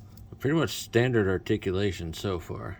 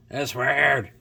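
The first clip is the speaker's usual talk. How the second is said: surprised exclamation; 5 semitones higher, 6 dB louder than usual. Real, not acted. Repeats the remark more emphatically.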